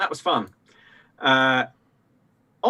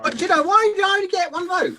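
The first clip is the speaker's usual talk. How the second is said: laughing; 13 semitones higher than usual. Real, not acted. Laughing protest at one vote.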